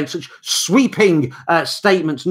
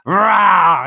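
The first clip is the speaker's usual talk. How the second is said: short playful dragon roar; mock roar; 7 dB louder than usual. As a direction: roar at the viewers.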